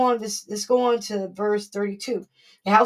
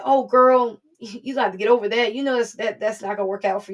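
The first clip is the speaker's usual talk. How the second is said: mock brushing-off friend, a touch louder; laughing it off like a careless girlfriend; dismissive friend; 5 dB louder than usual. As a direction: girlfriend scoffing at your worry. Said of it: "what our friends say".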